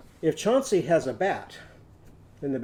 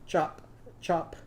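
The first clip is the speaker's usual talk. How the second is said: whispered chop chop; 4 dB quieter than usual. Shown as a demonstration. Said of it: "say the words after me".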